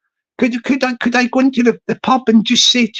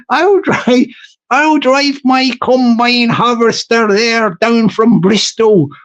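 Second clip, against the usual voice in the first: mock West Country accent. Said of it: "It sounds like the southwest of England".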